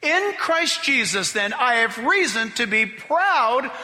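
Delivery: slow, deliberate reading; read differently. Shown as a demonstration. Preacher rereading the verse for the church, slow and deliberate. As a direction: lean into "worship" slowly. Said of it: "I'm gonna read it different".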